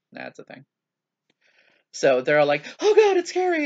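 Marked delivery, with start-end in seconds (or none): 2.8-3.7 very high, loud imitation of frightened kids; mock scared squeal. Imitates kids scared by horror game.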